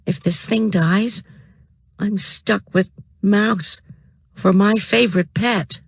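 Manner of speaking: put-on high, worried girl's voice; a kid fretting; Judy voice. A narrator's reading. Judy's voice in the story.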